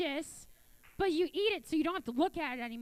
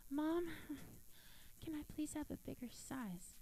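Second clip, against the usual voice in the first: timid ask; 9 dB quieter than usual. Retold or imitated. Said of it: "no voice modulation".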